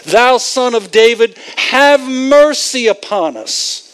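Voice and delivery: mild mock scream. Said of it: "what are they saying when they're screaming?".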